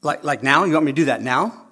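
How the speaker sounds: loud, fast mocking child's reply; mock a kid talking back; mocking a child who questions the order; sassy kid. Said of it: "turn around and look at you and say".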